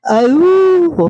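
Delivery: excited whoop. Real, not acted. Thrilled testing new mic.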